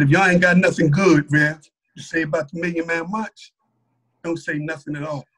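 low, firm warning, loud at the start. Retold or imitated. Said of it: "And I said it loud".

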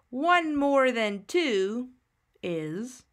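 whispered, drawn-out teacher question; whispered prompt. Shown as a demonstration.

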